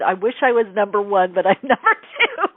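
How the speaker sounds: re-enacted rueful giggle; laughing confession. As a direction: admit it through a laugh, voice rising. Confessing, laughs through her answer.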